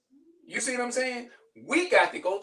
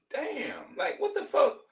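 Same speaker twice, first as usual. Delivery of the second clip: shocked outburst; 6 semitones higher, slower than usual. Retold or imitated. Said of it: "I'm like".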